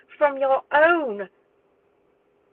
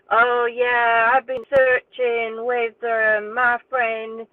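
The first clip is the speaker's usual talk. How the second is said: slow, louder, badly faked American accent; mock Donald in a clumsy American accent; mocking Donald's YouTube interview in a bad American accent; 3 dB louder, slower than usual. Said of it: "sorry about the American accent, it's really bad".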